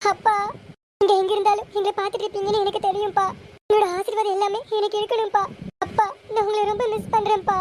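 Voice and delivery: a touch of tears in a pleading address; mildly tearful, as if speaking to someone lost. Acted. Daughter speaks to her absent father before her wedding, mildly tearful. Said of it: "அழுகாத பிருந்தா".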